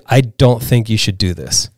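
low-key, grave word of caution; serious warning. Retold or imitated. Friend at the top warns the rider, serious. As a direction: imitate a friend advising soberly. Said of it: "looked at me all very seriously".

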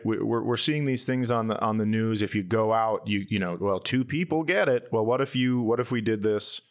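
normal talking voice

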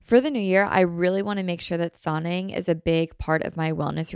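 upbeat sponsor read. Acted. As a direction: read the ad cheerfully. Host reads sponsor ad.

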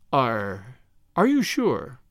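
a touch of hesitant, eager doubt; timid eagerness. Acted. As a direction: stammer the question timidly. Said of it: "with the timid eagerness".

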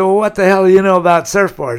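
a touchy surfer bristling at an insult; indignant retort. Retold or imitated. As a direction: fire it back, offended and fast. Surfer snaps back from water.

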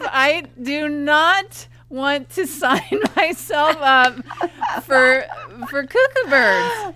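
laughing through the retold refusal; half-laughing, drawn out; telling the friend no through a laugh.

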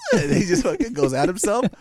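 ordinary talk, nothing marked

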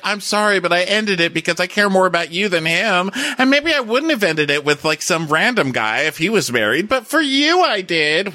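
high, breathy mock apology; mocking Lisa Rinna's apology to Susan; imitating Rinna. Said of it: "but Rinna's like".

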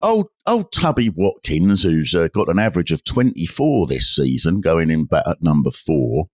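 put-on fussy amateur detective questioning a sweet old lady; a hint of a nosy cricket-club detective; village sleuth character.

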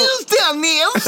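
put-on Bristol accent. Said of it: "It was like".

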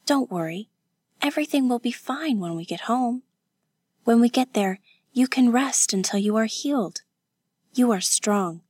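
lightly voiced, gentle encouragement; reassuring young woman. Kazuko comforting her injured companion about home, reassuring. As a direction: reassure her with a slightly lifted voice.

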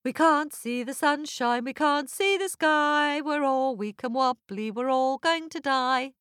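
high, wailing crowd voice; people's lament. Acted. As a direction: wail it like starving prisoners. Starving people lament in giant's belly.

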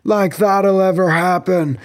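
mock ogre sneer, Scottish accent; Shrek. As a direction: scoff it in a put-on Scottish accent. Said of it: "Shrek is like".

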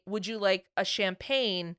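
polite waiter offer. Retold or imitated. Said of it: "they say".

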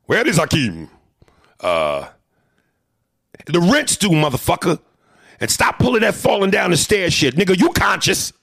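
high, loud scolding; mock angry landlady. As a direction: yell at Hakeem about rent. Quoting the landlady character.

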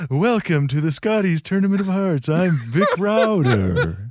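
a hint of the Count in a broadcaster welcome; lightly voiced vampire count hosting curling; half-hearted Count-like sportscaster; Vic Rauter impression. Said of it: "You're the Count".

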